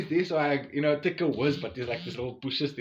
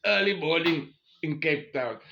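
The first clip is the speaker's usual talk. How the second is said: mock easygoing wife; 3 semitones higher, 5 dB louder than usual. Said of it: "what other wife would be like".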